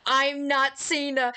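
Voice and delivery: slow, eerie imposter voice; creepy voice. Pretend. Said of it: "What if it said, like, dot, dot, dot".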